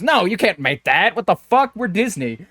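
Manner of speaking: a touch of hammed-up corporate anger; mock outrage. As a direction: play the offended studio boss. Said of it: "and goes".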